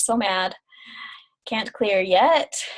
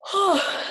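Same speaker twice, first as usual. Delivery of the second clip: yawning sigh; 11 semitones higher than usual. Real, not acted. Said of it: "my body always just yawns and yawns".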